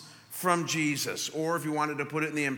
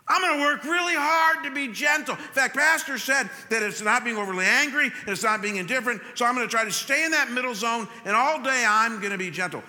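louder, higher, hammed-up determination; mock eager resolve; 4 semitones higher, 4 dB louder than usual. Churchgoer vowing to try hard, hammed-up eager resolve. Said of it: "wake up tomorrow morning and say".

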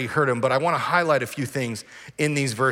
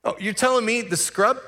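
offended; 7 semitones higher than usual. Retold or imitated. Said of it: "They're offended".

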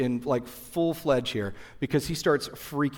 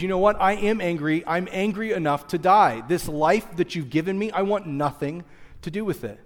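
Jonah's angry complaint; 2 semitones higher than usual. Retold or imitated. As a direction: sulk and lash out at God. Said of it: "looks over at God and says".

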